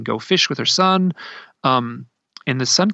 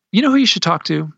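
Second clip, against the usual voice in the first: retold eager suggestion, higher and louder; sudden eager suggestion; 6 semitones higher, 5 dB louder than usual. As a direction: pitch up as if struck by an idea. Friend suddenly has an idea.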